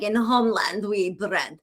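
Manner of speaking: British accent attempt slipping into Southern; botched Southern accent. Shown as a demonstration. Host mocks her own failed British attempt, botched Southern accent. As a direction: try a British accent and land in a muddled Southern one. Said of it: "a Southern accent. I'll be like".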